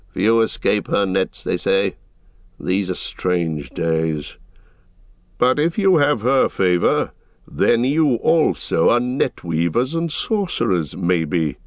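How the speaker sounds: lightly voiced accusing horseman; a touch of hard suspicion; distrustful rider. Rider reacts with hardened eyes.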